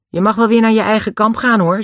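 calm tone. A narrator's reading. Dick dismisses Den to his own camp, calmly. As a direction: stay cool and cheeky, voice lifted high. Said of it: "nog steeds op dezelfde rustige toon".

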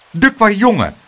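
loud, high exasperated cry; exclaiming. A narrator's reading. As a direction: cry out at the naughty boy. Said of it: "riep de weerman".

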